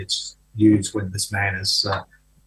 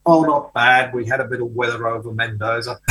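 laconic Texan drawl. Retold or imitated. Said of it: "said in this laconic Texan drawl".

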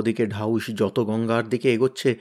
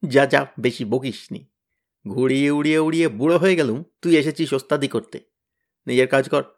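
scornful sneer. Acted. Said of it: "Tenida নাক কুঁচকে মুখটাকে হালুয়ার মতো করে বললে".

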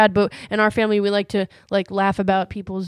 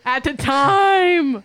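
mocking echo; 4 semitones higher, much slower than usual. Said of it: "why you keep bringing him up".

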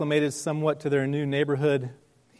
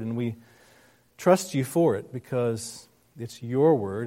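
prayer. Acted. Pastor leads prayer.

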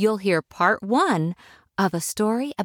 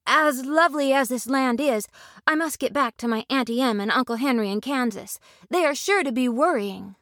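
put-on high girlish voice, earnest; young Dorothy; 5 semitones higher than usual. Dorothy quickly correcting the lady, high and earnest. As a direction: answer promptly and sincerely.

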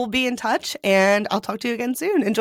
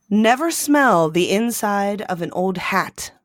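fortune reading; slower than usual. Shown as a demonstration. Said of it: "see what the fortune says".

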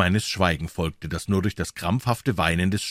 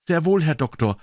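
higher, louder servant's reply with a touch of triumph; loud, triumphant; 8 semitones higher, 4 dB louder than usual. A narrator's reading. Paul answers the doctor through the door, loud and triumphant. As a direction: answer loudly, a bit triumphant. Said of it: "mit lauter Stimme".

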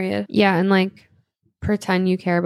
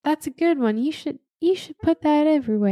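higher mock Southern voice; Southern accent; 5 semitones higher than usual. Co-host answering in Southern skit, higher twang. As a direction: encourage her in a put-on Southern twang.

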